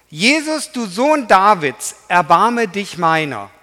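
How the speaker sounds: a high, loud plea of the blind beggar; loud, high begging cry. Acted. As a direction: call out to Jesus for mercy. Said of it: "fing er an zu schreien".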